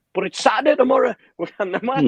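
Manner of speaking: high, loud, fast pleading protest; indignant protest. Retold or imitated. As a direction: plead it like the match is sacred. Protesting nurse about match day.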